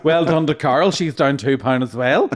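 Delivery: lightly mocked weigh-in congratulations; slimming group leader. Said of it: "this week's Slim and Word session".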